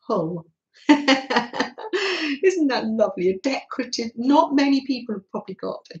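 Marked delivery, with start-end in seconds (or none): 0.1-0.5 "Hull" as Mum would say it, Lancashire style; mum's Lancashire accent. Retold or imitated. Recalling how Mum named the town, Lancashire accent. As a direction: lightly imitate a Lancashire "Hull". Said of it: "or how would she say it?".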